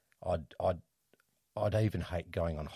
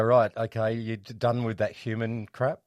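excited, high, loud dog voice; dog's voice; 4 semitones higher, 10 dB louder than usual. Retold or imitated. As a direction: voice the happy dog brushing it off. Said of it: "they just go".

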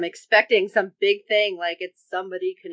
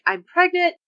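1 imitating tearful plea; 5 semitones higher than usual. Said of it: "When she's like".

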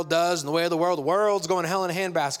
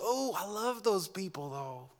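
soft whisper; 4 semitones higher, 6 dB quieter than usual. Retold or imitated. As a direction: gently whisper it, almost amused. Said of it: "he goes".

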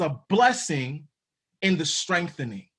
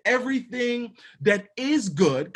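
"is" stressed and set apart before "good"; emphasis on IS; 3 semitones higher than usual. Real, not acted. Preacher telling listeners what comes from God, emphasis on "is". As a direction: lean firmly on the word "is". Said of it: "I put emphasis on the word is".

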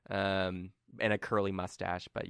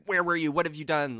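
nobles questioning; 7 semitones higher, 4 dB louder than usual. Acted. GM voices nobles questioning Colm.

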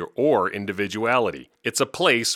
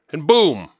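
higher and louder, big comic payoff; mock triumphant boom; 6 semitones higher, 7 dB louder than usual. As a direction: slam the punchline home.

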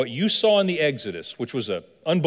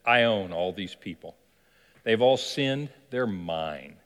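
lower, smug devil claiming his own; possessive devil; 5 semitones lower, slower than usual. Acted. Devil boasts to Jesus about the sinners, low and smug. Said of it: "He said".

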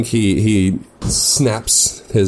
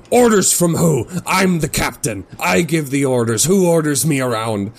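raised, higher indignant captain's yell; 6 semitones higher than usual. Acted. Captain yelling at his crew about orders, raised indignant voice. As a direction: bark it at the whole deck like an offended captain. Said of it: "he's just kind of yelling in general".

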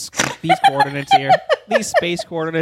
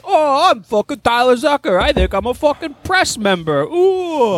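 mocking Tyler Zucker; 4 semitones higher than usual. Mocking a listener who voted for him, in a smug put-on voice. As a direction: sneer at him like a self-important press guy. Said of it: "You and your journalism degree in Rutgers".

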